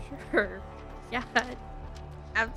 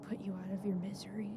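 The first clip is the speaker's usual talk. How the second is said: soft whisper; 7 dB quieter, faster than usual. Acted. Offering a mercy kill softly.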